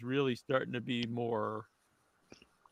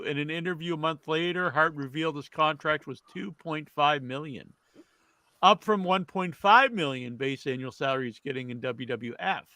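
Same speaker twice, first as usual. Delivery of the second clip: news read; 2 semitones higher than usual. Acted. Host reads today's wrestling history to the panel, news read.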